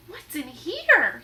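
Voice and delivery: loud, slow suspicious demand; gruff pirate question. Acted. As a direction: demand to know. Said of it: "he said".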